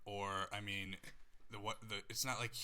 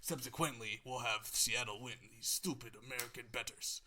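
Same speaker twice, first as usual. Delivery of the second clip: put-on Russian accent; 2 semitones higher than usual. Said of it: "That's the worst Russian accent I've ever heard".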